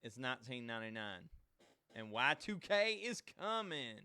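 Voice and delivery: Quote of a singer. Retold or imitated. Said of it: "like Prince would say".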